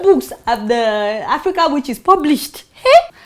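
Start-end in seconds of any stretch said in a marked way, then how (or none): 2.7-3.1 sharply higher, louder challenge; challenging hey. Real, not acted. The speaker challenges the audience about African witches with a high, pointed hey. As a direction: toss it out as a dare.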